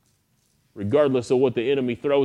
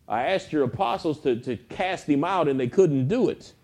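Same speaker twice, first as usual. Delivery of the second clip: higher-pitched, urgent retold plea; lightly acted desperation, pitched up; desperate father; 4 semitones higher than usual. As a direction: act out a father pouring out his trouble. Retold father begging for son.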